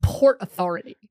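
loud, measured mock threat; imitated indignant stranger. Stranger threatens dad at the airport, loud mock indignation. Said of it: "the stranger w-, kept saying".

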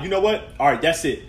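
lively retold peace-making. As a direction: play it up as the fed-up but loving boyfriend. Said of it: "I'll be like".

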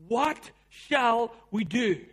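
slow, desperate plea; cry of desperation. Retold or imitated. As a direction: drag it out in fearful despair. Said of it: "That is a cry of desperation".

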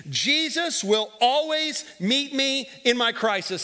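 slow, deliberate call for the congregation; leading the phrase. Shown as a demonstration. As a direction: spell it out so they can follow. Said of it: "say this phrase with me".

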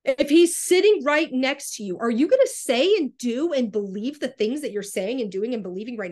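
impassioned, insistent pleading; heated, worked up. Real, not acted. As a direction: preach it urgently, getting worked up. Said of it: "sorry if I sound heated and worked up".

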